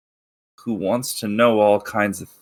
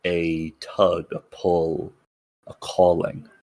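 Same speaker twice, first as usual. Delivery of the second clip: dramatic narration. A narrator's reading. GM scene setting.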